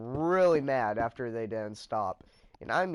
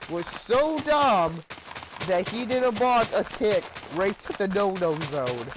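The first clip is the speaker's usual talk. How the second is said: mock dopey voice; 6 semitones higher, 4 dB louder than usual. Mocking Eli's mistake.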